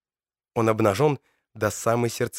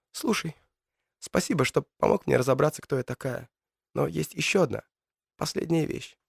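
lightly raised, gentle female voice; young woman voice; 4 semitones higher than usual. Acted. Matilda the witch speaks.

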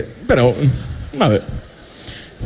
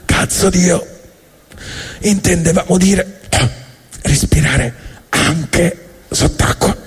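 higher, slow fed-up correction; exasperated fish; 5 semitones higher, slower than usual. Acted. Fish correcting God, slow fed-up higher voice. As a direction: spell it out to God, trailing to a hiss. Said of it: "E i pesci rispondono".

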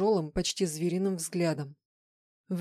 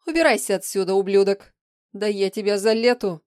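much louder enraged yelling; furious screaming; 2 semitones higher, 8 dB louder than usual. Acted. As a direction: scream him out of the room. Shadow screams at Vlad.

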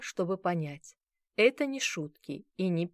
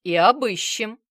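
ominous promise; 4 semitones higher, 11 dB louder than usual. Acted. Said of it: "многообещающе сказал Базаров".

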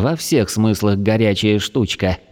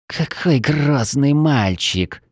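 slow, higher sneering hiss; hissed mockery; 4 semitones higher, much slower than usual. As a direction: hiss it slowly with contempt. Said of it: "прошипела в ответ магичка".

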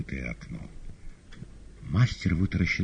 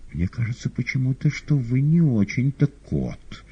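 hesitant; 9 semitones higher, 4 dB louder than usual. Acted. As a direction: say it unsure, carefully. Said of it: "нерешительно ответил мастер". (нерешительно, медленно)

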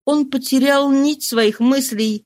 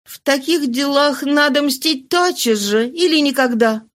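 firm and higher woman's voice; 5 semitones higher than usual. Acted. Mistress firmly advises revenge now or never. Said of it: "сказала она твёрдо".

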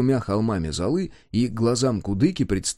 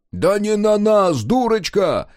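coaxing; 9 semitones higher, 5 dB louder, slower than usual. A narrator's reading. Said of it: "уговаривал её вражина".

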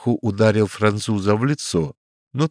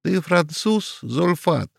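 much higher, outraged yelping; indignant cry; 9 semitones higher than usual. A narrator's reading. Small man confronting the Frenchman, outraged cry. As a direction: cry out in offended disbelief. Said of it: "вскрикнул маленький мулат".

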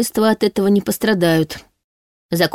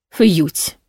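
sarcastic mimicry. A narrator's reading. Demon parodies the heroine's whoosh, sarcastic. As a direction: parody her word drily. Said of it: "язвительно спародировал меня демон".

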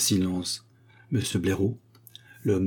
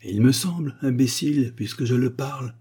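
higher, louder irritated retort; irritated cry; 5 semitones higher, 3 dB louder than usual. Acted. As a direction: snap back at the fool, lightly shouted. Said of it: "cria la momie avec irritation".

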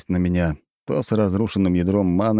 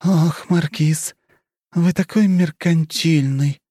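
high, slow, teasing put-on sigh; mock sigh; 11 semitones higher, 4 dB louder, slower than usual. A narrator's reading. Countess teases the marquis with a fake sigh. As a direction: sigh theatrically, playing coy. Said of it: "наигранно вздохнула Хрущева".

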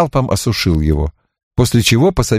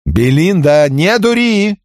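raised angry snap; growled warning; 9 semitones higher, slower than usual. A narrator's reading. Barrett warning Belinda, raised angry snap. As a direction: warn her off gruffly. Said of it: "прорычал Барретт".

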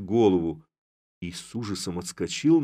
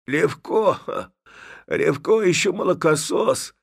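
higher, louder mock hoarse grumble; hoarse undertone, tall man; 10 semitones higher, 7 dB louder, slower than usual. A narrator's reading. Father scolding the girl about Levko, hoarse undertone. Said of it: "говорил хриплый вполголоса высокий человек".

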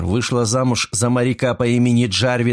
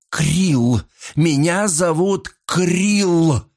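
furious shout; 9 semitones higher, much slower than usual. A narrator's reading. Mrs Creel shouting her name at the detective.

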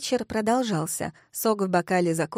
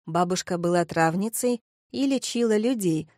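plain reading voice

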